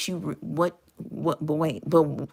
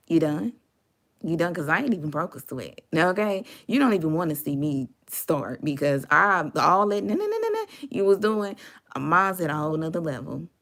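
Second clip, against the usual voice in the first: unbothered brush-off. Retold or imitated. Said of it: "And you just like".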